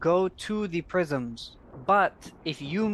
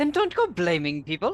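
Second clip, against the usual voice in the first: ordinary talk, nothing marked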